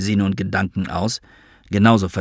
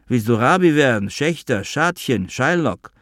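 mocking; 4 semitones higher than usual. Father mocks son's Galizien plans.

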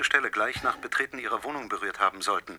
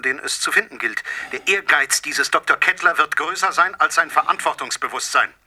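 louder, pressing harder toward the end; rising intensity; 3 semitones higher, 5 dB louder than usual. Acted. Poisoner accuses Doktor Kettler, rising louder intensity. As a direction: build it like a verdict.

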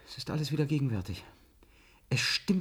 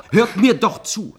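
pleading; 5 semitones higher, 11 dB louder, slower than usual. Acted. Verzweifeltes Flehen um Gehör.

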